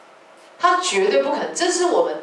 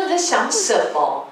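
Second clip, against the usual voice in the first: retold scolding; 3 semitones higher than usual. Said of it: "那时候我就骂".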